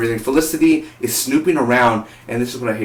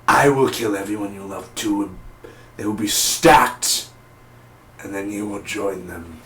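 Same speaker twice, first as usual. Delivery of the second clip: Vandal Savage; 3 semitones lower than usual. Retold or imitated. Reviewer retelling villain's threat to Arrow, mock menace. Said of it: "you know, he says".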